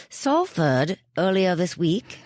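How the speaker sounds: put-on American putting on a British accent; hammed-up amateur British accent; terrible British accent. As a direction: do a bad British accent, R's dropped. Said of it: "I do a terrible British accent".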